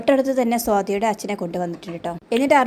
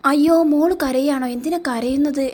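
higher, slow, sing-song fake sympathy; mock pity; 6 semitones higher, slower than usual. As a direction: coo over her tears as if sorry, but mocking. Villain mocks crying girl.

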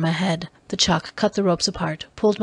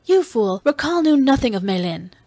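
higher-pitched scornful retort; scornful outburst; 5 semitones higher, 3 dB louder than usual. Acted. Dalisa scorning Kiral in a quarrel, scornful outburst. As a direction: throw the insult at him with scorn.

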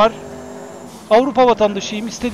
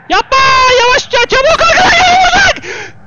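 very high, loud, frantic shrieking; panicked scream; 8 dB louder than usual. Real, not acted. Gamer being chased from behind, real panicked scream. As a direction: scream for it to stop.

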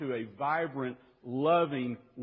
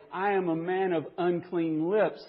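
a rising prophet's lament, louder at the end; a broken, rising cry of woe; 4 semitones higher, 8 dB louder than usual. Retold or imitated. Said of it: "we see Isaiah cry out and say".

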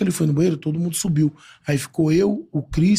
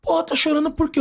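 much higher, amused teasing voice; imitating Neymar; 11 semitones higher than usual. Neymar asking the crying fan why, in a high amused voice. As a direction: tease him kindly for crying.

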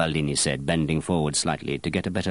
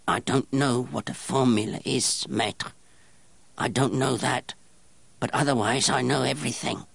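pinched snarl; 7 semitones higher than usual. Acted. Strange apprentice answering the master perfumer, pinched snarl. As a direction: squeeze the words out like a gnome. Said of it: "Grenouille's pinched snarl".

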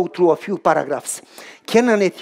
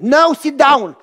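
urgent excitement; 7 semitones higher, 6 dB louder, slower than usual. Acted. Urging wife to sit.

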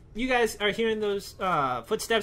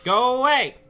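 louder, sharp command; shooing yell; 3 semitones higher, 5 dB louder than usual. Real, not acted. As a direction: shout it to drive him off. Yelling at the animatronic.

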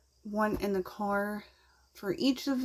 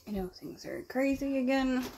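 cloth held over mouth; slightly muffled by tissue; talking through a wipe; 3 semitones higher than usual. Real, not acted. Seen 1: Wet wipe held over nose and mouth while speaking.

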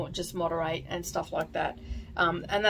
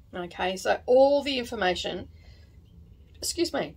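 hiccuping mid-sentence; speaking through hiccups; 3 semitones higher than usual. Real, not acted. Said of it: "got the hiccups now".

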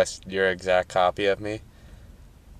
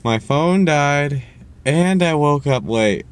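high, slow whiny mimicry of her excuse; mock-sweet apology, slowed and pitched up; 5 semitones higher, slower than usual. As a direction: parrot her sorry in a high, drawn-out sing-song. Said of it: "she's like".

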